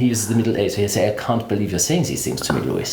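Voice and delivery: German-British hybrid accent; marry British and German accents; Lipschitz. Shown as a demonstration. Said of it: "who talks like this".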